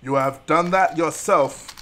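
mildly hammed-up rebuke; a touch of film-hero sternness; stern retort. Streamer mimics scolding of Anakin, mild stern retort.

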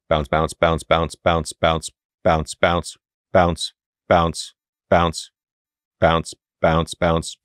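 rhythmic bouncing ball noises; vocal bounce sounds. Shown as a demonstration. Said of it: "use your voice to act out the sound effect".

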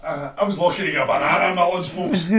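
words spoken through laughter; laughing while talking. Real, not acted. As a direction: chuckle through the line. Laughing at his own joke.

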